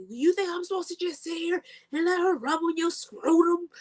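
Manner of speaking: high, laughing mock of Jamala; laughing and squeaky, mocking her outrage; mock Jamala quote. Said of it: "she was like".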